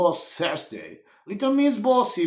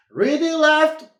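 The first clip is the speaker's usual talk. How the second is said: high, loud drill-sergeant commands; shouted commands; 11 semitones higher, 7 dB louder than usual. A narrator's reading. Boots halting after five miles, loud high commands. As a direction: bark the halt like a drill sergeant. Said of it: "She was shouted".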